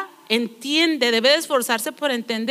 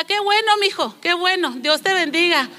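mimicking grandma; 4 semitones higher than usual. Preacher imitating a grandma who mishears her grandson, higher sweet voice. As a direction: chirp it like a grandma who didn't hear.

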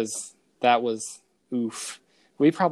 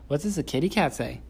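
higher sing-song parent voice; 4 semitones higher than usual. Real, not acted. Talking to toddler daughter.

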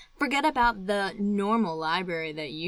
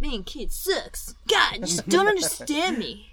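put-on whiny, higher-pitched teenage complaint; hammed-up adolescent exasperation; mock angsty teen; 4 semitones higher than usual. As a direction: play a misunderstood kid throwing a mild tantrum.

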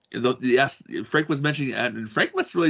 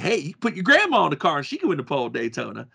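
slightly raised, loosely imitated Georgia accent; Bill Elliott; 4 semitones higher, faster than usual. Host quoting a racer's grandma line, hint of Georgia accent. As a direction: retell it with a light Georgia lilt. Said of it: "I'm not trying to do his Georgia accent".

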